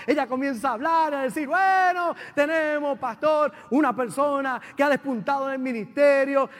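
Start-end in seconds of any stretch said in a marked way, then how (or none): 1.5-6.5 loud, raised announcer-like build-up; acted-out proud public introduction; imitated grand announcement. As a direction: announce the honoree with big fanfare. Acts out leader's glowing announcement.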